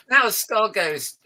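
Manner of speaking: slow, high, a hint of a ghost wail; drawn out like a playful ghost; ghostly howl. Spooky intro of the Scarred Ghost again.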